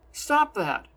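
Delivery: loud, high protest; exclaiming. A narrator's reading. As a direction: snap at her to stop. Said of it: "he exclaims".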